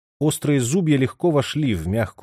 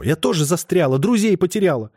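higher, louder pleading shout; desperate cry; 7 semitones higher, 4 dB louder than usual. A narrator's reading. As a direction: throw it at him desperately. Lipa keeps shouting.

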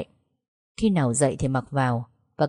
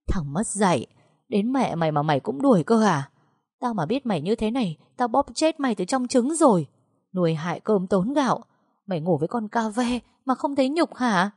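higher, scolding tirade; furious old mother; 5 semitones higher than usual. Acted. Mother scolding her son in a quarrel, furious. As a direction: tear into him like an outraged mother.

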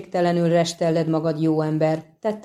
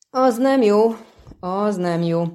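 sighing; 3 semitones higher, 3 dB louder than usual. Acted. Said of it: "sóhajtott Kökörcsin".

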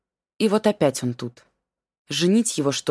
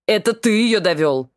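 angry accusation; 4 semitones higher, 5 dB louder than usual. Acted. Son accusing father.

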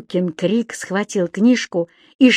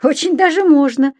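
lightly raised, lively protest; objecting; 8 semitones higher, 4 dB louder than usual. A narrator's reading. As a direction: contradict him eagerly. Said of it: "возразил Субастик".

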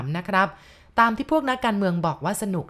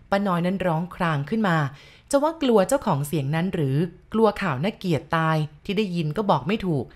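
plain reading voice

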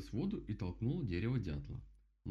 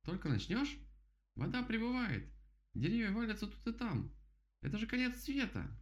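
much higher, frantic end-of-the-world cry; panicking rabbit; 14 semitones higher than usual. Acted. Rabbit panics about flood.

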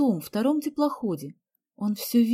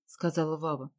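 usual speaking voice

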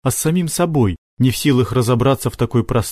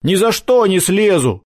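high, stubborn refusal; firm; 8 semitones higher than usual. A narrator's reading. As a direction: refuse point-blank. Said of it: "твёрдо сказал Макар".

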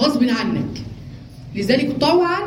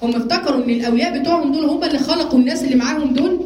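usual speaking voice

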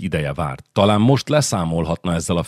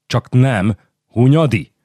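shocked realisation; 6 semitones higher, 4 dB louder, slower than usual. Acted. Count guesses the culprit.

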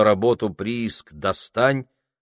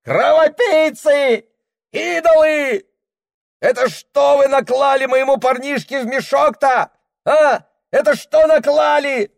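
furious yell; 7 dB louder than usual. Acted. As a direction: roar at them with rage. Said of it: "орёт".

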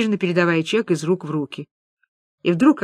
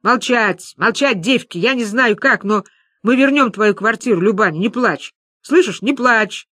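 firm, forceful call for order; booming command; 2 semitones higher than usual. Acted. Маша silences her shouting friends, commanding. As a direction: take charge over the din. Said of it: "зычному голосу Маши удалось перекрыть".

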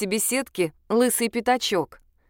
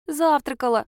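put-on child answering; 6 semitones higher than usual. A narrator's reading.

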